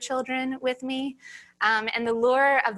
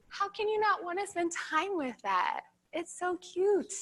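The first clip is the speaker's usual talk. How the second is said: gushing; 6 semitones higher, 4 dB quieter than usual. Real, not acted. Gushes over a cute face shown.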